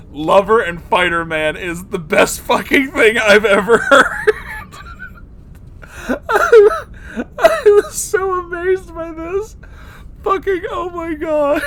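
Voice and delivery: high, loud, tearful laughing voice; laugh-crying. Real, not acted. Reacting to the fan fiction, crying with laughter. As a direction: squeak it out through tears of laughter. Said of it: "I'm fucking crying".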